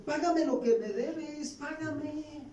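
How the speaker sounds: high, slow, insistent demand for payment; harsh demand. A narrator's reading. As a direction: squeeze the debtor for what he owes. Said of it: "le ahogaba diciendo". (exigencia dura, voz alta y lenta)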